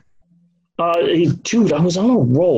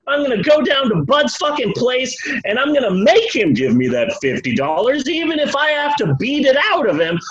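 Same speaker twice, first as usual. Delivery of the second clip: put-on drunk furious rant; 7 semitones higher than usual. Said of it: "and he's like".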